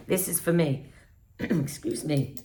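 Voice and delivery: throat-clearing, husky voice; frog in throat. Real, not acted. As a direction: clear the throat between words. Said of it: "I got a, um, frog in my throat".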